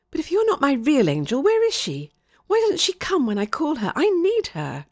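high, urgent, upset questioning; rising, high-pitched desperation; distressed pleading. Acted. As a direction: plead for someone you badly need. Child demands her missing angel.

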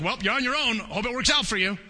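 lightly voiced shrug of a careless creator; mock indifferent God. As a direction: toss it off like a God who doesn't care. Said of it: "and step back and be like".

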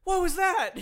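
high, loud yelled question; retold yell. Woken up, calling to fallen roommate, retold yell. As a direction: holler it toward the stairs. Yelling to roommate after crash.

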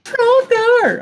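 very high booming shout of the name; fighting game announcer. Pretend. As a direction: call it out like an arena announcer.

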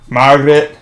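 shaky grasp of an Irish accent; Irish accent that slips toward Scottish; attempted Irish accent. Shown as a demonstration. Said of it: "In Irish accent?".

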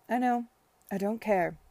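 loud, happy brush-off; cheerful defiance. Acted. Babington to gloomy Esther, loud cheerful defiance. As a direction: toss it off boldly and gladly.

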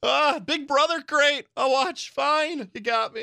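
plead, then give in; defeated viewer begging the streaming service; mock pleading. Acted resigned subscriber pleading.

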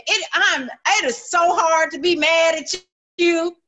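a lightly voiced charmed friend; fond quoted praise. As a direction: play a charmed friend saying it. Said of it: "you'll find people say".

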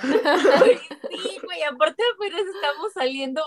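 laughing through the words. Real, not acted. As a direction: giggle while speaking. Laughing while telling story.

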